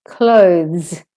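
"Clothes" gliding from voiced th into z; careful "Clothes" with buzzed th-z ending. Shown as a demonstration. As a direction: end "Clothes" on voiced th, then z. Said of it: "go from a voiced T H to a Z".

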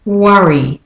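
British worry, short cup vowel; Australian and British worry. Shown as a demonstration. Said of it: "So in the Australian and British".

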